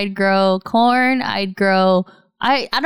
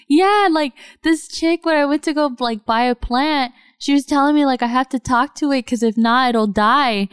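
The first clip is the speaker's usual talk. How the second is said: imitating friend; 5 semitones higher than usual. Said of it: "She goes".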